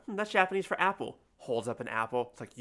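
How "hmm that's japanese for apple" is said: tag. Retold or imitated. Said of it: "I was like".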